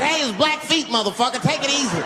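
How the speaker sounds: high, sputtering protest; high indignant correction. Retold or imitated. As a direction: snap back after being splashed. Correcting chief after splash.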